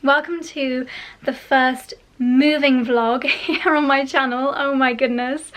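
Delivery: holding back real tears while greeting viewers; close to tears. Real, not acted. Vlogger welcoming her darlings, near real tears. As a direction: voice catching on the welcome, slow and tearful. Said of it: "It makes me almost wanna cry".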